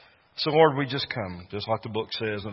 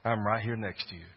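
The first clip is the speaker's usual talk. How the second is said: tender father; 3 semitones lower, 5 dB quieter than usual. Acted. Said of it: "that sweet daddy said".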